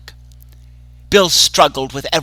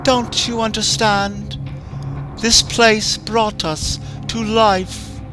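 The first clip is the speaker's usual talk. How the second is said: put-on high, hushed, creepy clown girl warning him; hushed female clown; 9 semitones higher than usual. A narrator's reading. Female clown voiced throughout.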